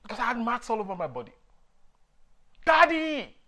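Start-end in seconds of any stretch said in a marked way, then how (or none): 2.7-3.3 high, loud cry for Dad; calling out. Retold or imitated. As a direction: holler for your father like a child in trouble. Child calling father for help.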